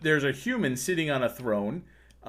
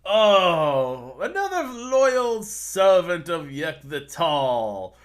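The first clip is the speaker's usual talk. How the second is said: a lightly voiced manly heartthrob, slow and grand; a hint of a vain, handsome ruler; 5 semitones higher, 6 dB louder, much slower than usual. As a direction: vain human king greeting the party, lightly manly voice. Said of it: "He's got this very manly voice".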